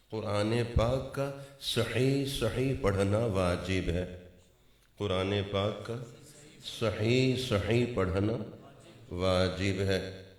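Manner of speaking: صحیح صحیح pressed hard and loud; emphatic. Shown as a demonstration. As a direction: hammer home صحیح صحیح. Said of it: "stresses correct recitation".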